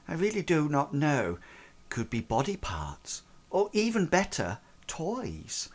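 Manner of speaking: soft, wandering musing; a strange girl musing on a visitor's bags; dreamy odd girl. Acted. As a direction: drift through it like an eerie child. GM voices Erin musing oddly.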